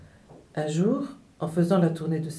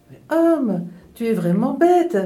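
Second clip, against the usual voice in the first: loud, higher-pitched taunt; scornful bird; 6 semitones higher, 6 dB louder than usual. A narrator's reading. Nightingale taunting the foolish man from the branch, loud scorn. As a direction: declare it mockingly from out of reach. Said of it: "déclara le rossignol".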